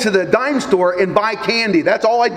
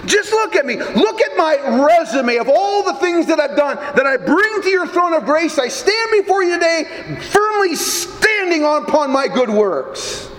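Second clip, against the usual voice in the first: higher, proud mock boasting to God; self-righteous boast; 5 semitones higher than usual. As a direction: parade your good works before the throne. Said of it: "we all want to stand back and say".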